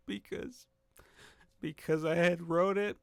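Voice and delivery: choked up, half laughing, half crying; emotional voice breaking on the first word; tearing up. Real, not acted. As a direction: voice cracking into a teary laugh. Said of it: "I'm tearing up a little bit".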